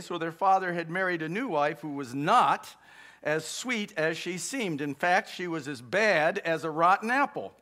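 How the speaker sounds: measured, expressive storybook reading; story narration. A narrator's reading. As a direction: read it aloud like a fairy tale. Reads fairy tale aloud.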